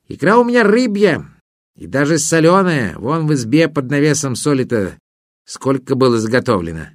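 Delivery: a hint of a chatty river spirit; water spirit voice. Water spirit speaks in story.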